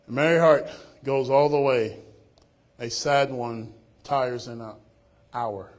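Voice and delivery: loud, ringing proclamation; preacher booming the proverb; proclaimed loud. Real, not acted. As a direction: ring it out to the congregation.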